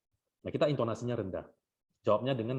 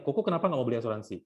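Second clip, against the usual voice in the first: quick question with a mildly raised voice; 3 dB louder, faster than usual. Acted. Agent asking client why no insurance, mildly raised voice. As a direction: press the question out fast, voice slightly up. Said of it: "tapi vokalnya udah naik".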